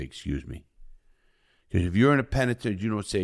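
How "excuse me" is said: polite excuse. Shown as a demonstration. Demo of prison politeness.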